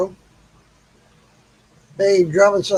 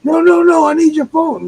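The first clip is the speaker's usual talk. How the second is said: higher and louder, pushy refusal; insistent crackhead; 10 semitones higher, 5 dB louder than usual. Retold or imitated. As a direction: demand the phone, not taking no.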